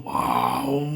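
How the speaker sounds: mild mock roar; imitated lion roar. Shown as a demonstration. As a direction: roar like a lion, half-hearted. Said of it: "Kalau mengaum". (menirukan auman singa ringan)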